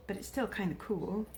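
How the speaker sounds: soft unvoiced whisper, trailing off. Real, not acted. Judging a tarnished bangle for viewers, whispering. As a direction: whisper your verdict to yourself.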